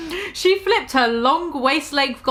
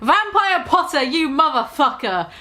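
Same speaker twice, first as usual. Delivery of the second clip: mock yell; 2 semitones higher than usual. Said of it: "I yelled".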